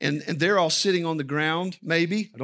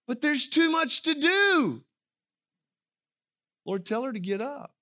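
pleading, higher, exasperated Martha; 7 semitones higher than usual. Retold or imitated. Preacher voicing Martha's frustrated plea to Jesus. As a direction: sigh it out as the overworked sister. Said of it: "Martha would say".

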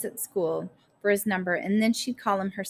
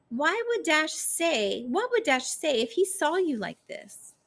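increasingly worked-up plea; 8 semitones higher than usual. A narrator's reading. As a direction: pitch climbing into a high, insistent appeal. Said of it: "her voice getting louder and louder".

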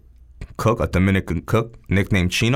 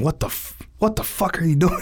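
high-pitched mock yell, not at full volume; imitated chef yelling; 11 semitones higher than usual. Chef to struggling cook mid-service, imitated high yelling. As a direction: act out an exasperated chef's yell. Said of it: "it was just the chef yelling".

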